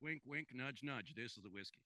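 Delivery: soft, conspiratorial undertone; sly aside. Real, not acted. Host hinting the bottle is bootleg, hushed aside. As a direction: slip it in like a secret joke.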